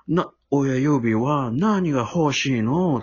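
slow, lightly voiced croaky grandpa; a hint of a raspy old man, drawn out; hoarse old man. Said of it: "出たらほんまにそのしわがれた".

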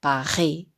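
"パリ" with a French throat R, "Pa-ʁi"; French Paris. Shown as a demonstration. Teacher demonstrates Paris in French. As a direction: roll "パリ" back in the throat like French. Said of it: "どうでしょうか".

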